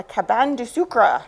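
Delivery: French words in a non-native accent; amateur French accent; attempted French accent. Real, not acted. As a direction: try the French pronunciation, imperfectly. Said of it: "pardon my terrible accent".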